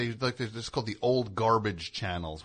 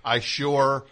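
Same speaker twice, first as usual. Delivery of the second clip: defiant, loud punch on "don't"; pause, then throw "don't" out like a dare; weirdly challenging; 3 semitones higher, 9 dB louder, much slower than usual. Retold or imitated. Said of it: "there's something weirdly challenging about that".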